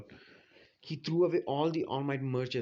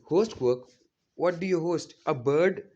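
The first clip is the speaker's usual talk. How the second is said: incredulous questioning; 3 semitones higher, 5 dB louder, slower than usual. Retold or imitated. Retold teacher questioning a surprising claim.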